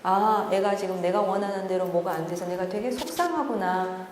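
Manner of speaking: ordinary delivery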